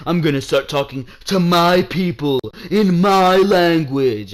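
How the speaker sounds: mocking, lightly voiced wrestling promo; mock-grand declaration; Jinder Mahal. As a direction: put on a hint of a pompous champion addressing his people. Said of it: "Jinder Mahal was like".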